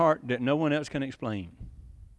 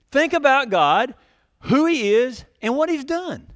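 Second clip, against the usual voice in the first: fervent urging; 7 semitones higher, 3 dB louder than usual. Acted. Preacher urging the congregation.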